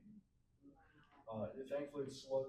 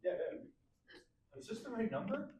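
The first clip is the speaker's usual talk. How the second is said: laughing; 10 semitones higher, 9 dB louder, slower than usual. Pretend. Jokes about Obama answering the phone.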